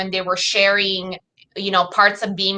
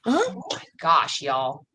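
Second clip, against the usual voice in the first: Italian accent; 6 semitones lower, 6 dB quieter, slower than usual. Real, not acted. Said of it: "I just heard your Italian accent say".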